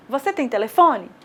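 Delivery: "Você tem telefone?" said with a plain spoken question tune, lifting on "telefone"; question intonation. Shown as a demonstration. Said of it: "quando eu faço uma pergunta, é a entonação da voz".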